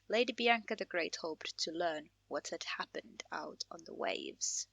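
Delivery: measured storyteller read of the quest intro; quest text narration. A narrator's reading. Streamer reading the game's quest intro to viewers, storyteller read. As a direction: read it like the opening of a tale.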